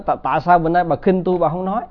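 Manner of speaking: husband snapping at his silent wife in a mild mock scold; retold angry husband. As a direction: rattle it off like an irritated husband demanding an answer.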